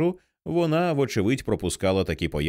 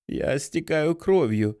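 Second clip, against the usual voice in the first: put-on slow, higher, voice of a terrified girl; panicked cry; 6 semitones higher, slower than usual. A narrator's reading. Bleeding girl cries to her teacher in panic. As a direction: let it tear out of her, slowly. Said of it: "закричала Керрі".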